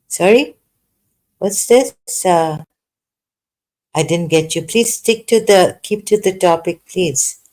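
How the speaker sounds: irritated surprise. Real, not acted. Annoyed at caller's nonsense.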